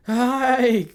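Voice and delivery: high, loud cry; panicked shriek. Acted. Hysterical girl struggling in rescuer's hold, panicked shriek. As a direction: shriek to get away.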